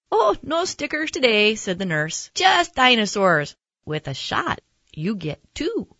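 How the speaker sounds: high, lively nurse voice; chirpy nurse. Acted. Nurse telling a child about free dinosaurs, chirpy and high. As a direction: pitch it up, loud at first, like a perky nurse.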